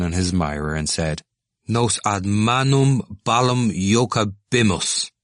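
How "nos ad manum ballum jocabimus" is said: slow, intoned blessing; a student playing priest with a handball; mock-solemn Latin.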